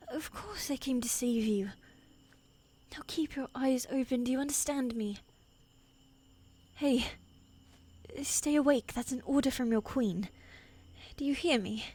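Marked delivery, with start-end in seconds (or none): 3.1-11.8 urgent plea. Acted. Queen calling to her poisoned king to stay awake, urgent. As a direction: keep him conscious with your voice.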